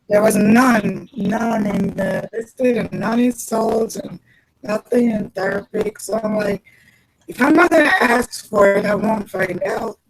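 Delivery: words bubbling like gargling; muffled as if underwater; gargling sound. Real, not acted. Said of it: "you sound like you're gargling".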